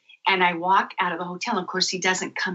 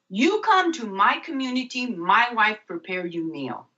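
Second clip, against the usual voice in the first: imitating Mark; 3 semitones higher than usual. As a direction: invite her warmly like the guide. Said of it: "He goes".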